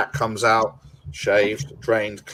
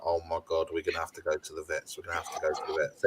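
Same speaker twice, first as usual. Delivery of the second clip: mock panic; 7 semitones lower, 10 dB quieter, faster than usual. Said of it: "and I'm like".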